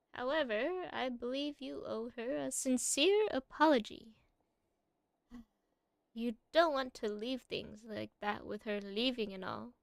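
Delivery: put-on whispered old lady advice. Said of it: "my old lady voice".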